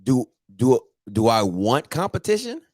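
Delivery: disbelieving, pitch sweeping up to the end; can't believe you asked that; incredulous echo question. Real, not acted. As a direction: repeat the question with a long climbing rise. Echoes caller's question in disbelief.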